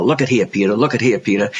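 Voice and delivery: lightly imitated New Orleans southern accent. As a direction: quote the mentor in a mild southern accent. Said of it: "in a southern accent from New Orleans".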